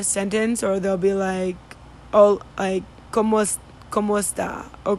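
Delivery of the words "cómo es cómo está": clipped southern Spain Spanish, dropping sounds; southern Spanish accent. Retold or imitated. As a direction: imitate the Andalusian way of cutting words short. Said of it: "how they say gracia".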